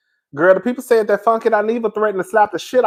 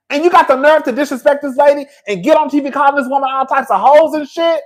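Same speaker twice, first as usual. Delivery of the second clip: raised, heated scolding of a sorry man; indignant rant; 4 semitones higher than usual. Real, not acted. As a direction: tear into him for disrespecting the mother. Ranting at a man on TV.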